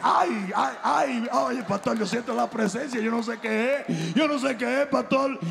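hammed-up ecstatic believer; overwhelmed churchgoer. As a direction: gush as if feeling the Spirit. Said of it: "Mira, pastor, y yo dije".

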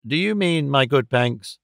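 mildly emphatic "Do you mean", lifted at the start. A narrator's reading. Clennam questions his friend Panks about the investment, mildly emphatic. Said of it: "asked Clennam emphatically".

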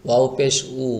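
উ said smoothly with no knock; natural, unjolted উ. Shown as a demonstration. Teacher repeats the correct way, উ smooth and natural. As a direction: ease into উ without a push. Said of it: "এটাকে স্বাভাবিকভাবে বলবেন".

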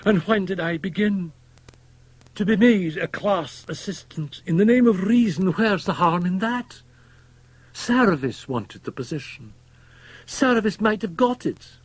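very high, loud, panicked outcry; desperate, high-pitched self-justifying wail; anguished crying out. A narrator's reading. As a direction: cry out in rising despair. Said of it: "he cried".

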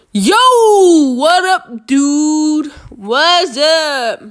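lightly voiced cool dude greeting; a hint of a street homie; put-on dude voice. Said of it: "I don't know what I'm talking like this".

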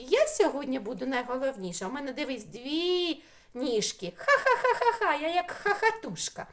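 вище, хвалькувато, з реготом «ха-ха»; зіграти хвальковиту буковку, що сміється; голос букви Ц. Pretend. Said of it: "змагаються дві буковки". (буковка Ц хизується перед Х, весело регочучи)

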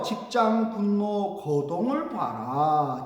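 slow, stretched refrain; measured declamation of a verse; pansori recitation. Acted. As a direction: draw each word out to the end.

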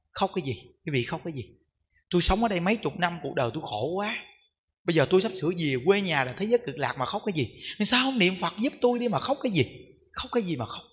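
kể lại lời bà, giọng nhỏ và trầm; hạ giọng như dặn dò người thân đừng khóc; khuyên nhẹ người nhà. Retold or imitated. Kể lời bà dặn gia đình. (giọng khẽ, trầm, khuyên nhủ)

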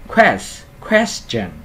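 "question" high on QUES, with a hissed s before ch. Shown as a demonstration. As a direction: let the s hiss in "quest" and "question". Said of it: "phát âm xì S nha". ("question" nhấn âm đầu, xì rõ S)

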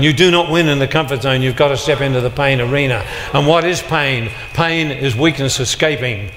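ordinary talk

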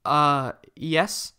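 hesitant, unnerved reply; nervous stammer. A narrator's reading. Takua answers Kopaka nervously, a bit unnerved. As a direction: answer unsure under a hard stare. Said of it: "he stammered".

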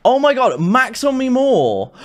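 losing it at the game; frustrated outburst. Real, not acted. Gamer dying again, high exasperated outburst.

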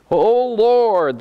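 solemn psalm read aloud, lifted at the start; scripture reading. Acted. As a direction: read the lament like a prayer.

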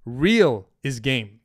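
slowed, weighty statement; slow emphasis. Real, not acted. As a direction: lean on each word. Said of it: "write this down".

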